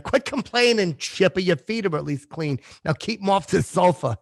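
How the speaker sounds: lightly voiced scolding mom, starting high; hint of a nagging mother; imitated mother. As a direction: mimic a mother's brisk telling-off. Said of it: "my mother would always say that".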